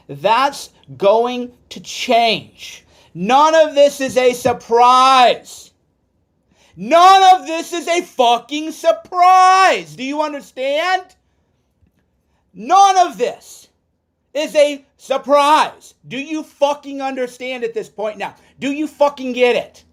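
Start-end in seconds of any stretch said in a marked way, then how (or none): 3.1-5.7 louder and slow, each word weighed; holding back a boil, said slowly; slow, pressed real anger; rising anger. Real, not acted. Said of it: "I'm getting fired up". 6.8-10.0 much higher and louder, slow, nearly shouting; real furious near-shout; furious outburst. Real, not acted. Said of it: "I'm getting fired up". 10.0-19.8 furious, pitched-up ranting; real fury. Real, not acted. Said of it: "I'm getting fired up".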